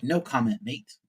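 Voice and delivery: imitating a British mate, lightly done; a mock English accent, understated; bad English accent. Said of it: "My terrible English accent".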